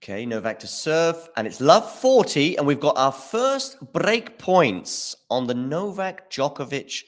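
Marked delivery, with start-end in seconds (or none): 1.4-7.0 excited. Real, not acted. Break points arriving for Rune.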